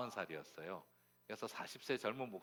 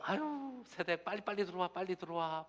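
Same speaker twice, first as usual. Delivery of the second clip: much higher, hurried welcome; fussing neighbour lady; 10 semitones higher, 3 dB louder than usual. Retold or imitated. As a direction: usher her in eagerly, high-pitched. Neighbour lady hurries guest inside. (호들갑스럽게 높은 소리로 반기는 아주머니)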